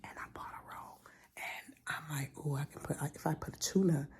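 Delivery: soft unvoiced whisper. Real, not acted. Vlogger whispering to viewers about the bread roll. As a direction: hush it to a whisper. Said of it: "why am I whispering?".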